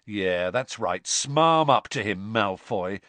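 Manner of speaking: mild mock sneer; a touch of scorn, drawn out; scathing. Ron mocking Malfoy from across the hall, scathing. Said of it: "said Ron scathingly".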